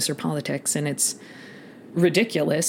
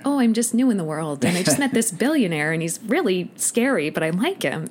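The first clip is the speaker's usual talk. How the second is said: mock the breathless ingénue; naive young girl; 3 semitones higher than usual. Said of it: "They want girls who sound, like, young and fresh".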